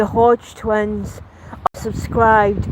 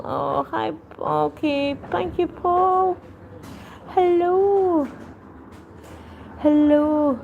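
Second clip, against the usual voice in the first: much higher, sweet customer-service voice; polite high greeting; 7 semitones higher, 3 dB quieter, slower than usual. Real, not acted. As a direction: chirp a polite hello to the shop staff. Greeting shop staff at counter.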